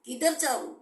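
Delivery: re-live the desperate prayer, voice lifted; retold tearful plea. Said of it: "road पे जोर जोर से रो के खड़ी हो गई". (रोते हुए प्रभु से गुहार की नकल)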